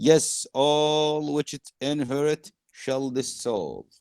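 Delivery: slow, stretched-out recital; declaimed verse. Acted. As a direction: let each image ring out slowly. Reads Prospero's speech to class.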